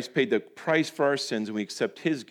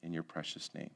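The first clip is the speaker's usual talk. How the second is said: closing prayer; 2 semitones lower than usual. Real, not acted. Preacher praying to God for the congregation, earnest prayer. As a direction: pray aloud, easing down to a hushed amen.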